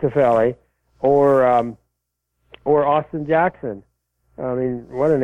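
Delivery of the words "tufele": Tufele repeated as tuh-FELL-ee; corrected pronunciation. Shown as a demonstration. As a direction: echo Tufele with stress on the middle syllable. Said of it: "I say Tufele".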